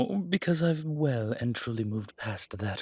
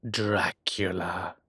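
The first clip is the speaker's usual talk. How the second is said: laughing; 2 semitones lower, 4 dB louder, slower than usual. Acted. Laughs revealing famous name.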